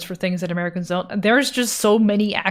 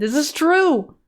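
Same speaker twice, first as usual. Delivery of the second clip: mock solemn agreement; 7 semitones higher, slower than usual. Mock agreement, higher far voice.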